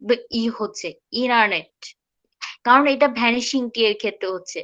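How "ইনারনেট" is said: ইনারনেট as "ee-nar-net", final T kept; vanishing T. Shown as a demonstration. Teacher answering question on the last T, vanished middle T. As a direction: drop only the middle T in ইনারনেট. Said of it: "মাঝখানে টিটা".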